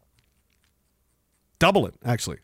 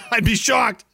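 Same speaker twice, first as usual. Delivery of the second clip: higher, laughing exclamation; amused disbelief; 5 semitones higher than usual. Real, not acted. Laughing disbelief, then repeated low.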